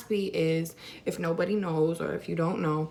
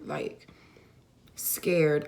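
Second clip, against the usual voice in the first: a breathless whispered word; 3 semitones lower than usual. Real, not acted. Telling viewers how scared she was, in a whisper. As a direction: let the fear drop into a whisper. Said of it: "I was scared".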